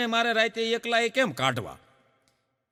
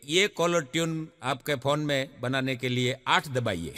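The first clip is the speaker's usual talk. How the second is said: recorded phone message; 7 semitones lower, 4 dB quieter than usual. Retold or imitated. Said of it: "ઓલી બોલી કે".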